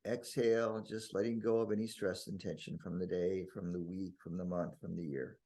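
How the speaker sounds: calm, unhurried breathing guidance; guided meditation. Real, not acted. Guiding listeners to breathe out the day's stress, meditative. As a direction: ease them into letting go.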